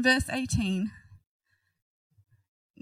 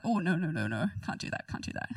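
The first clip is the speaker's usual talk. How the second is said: mock panicked refusal; 4 semitones lower, 5 dB quieter, faster than usual. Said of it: "And he's like".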